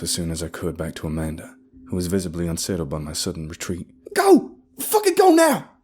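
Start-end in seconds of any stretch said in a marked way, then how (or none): 4.1-5.7 very high, loud panicked order; frantic, forceful command; urgent hiss. A narrator's reading. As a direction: urge her to run right now. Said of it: "I hissed in her ears".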